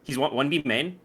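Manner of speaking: hyped gamer callouts; frantic ranked-match comms; Valorant comms voice. Shown as a demonstration. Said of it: "It's my best Valorant voice?".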